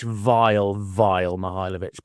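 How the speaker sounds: vile, vile, emphasised; stress on vile. Real, not acted. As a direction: drag out "vile" with disgust. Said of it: "naming him vile".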